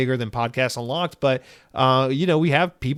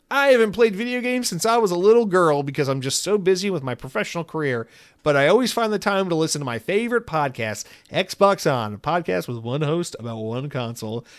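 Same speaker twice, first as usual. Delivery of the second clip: mock voice of a singer; 4 semitones higher than usual. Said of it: "She's like".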